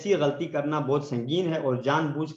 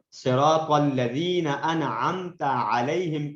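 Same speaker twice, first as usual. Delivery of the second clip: correct recitation; much slower than usual. Shown as a demonstration. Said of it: "غلط پڑھتے ہوئے".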